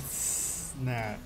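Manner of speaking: normal talking voice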